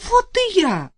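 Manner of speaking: sudden high cry; exclaiming. Acted. Вдова кричит Арсению о себе, высокий возглас. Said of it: "а потом воскликнула".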